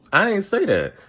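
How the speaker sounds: high-pitched imitation of protesting innocence; squeaky retold denial; mock denial. Acts out a denial when confronted.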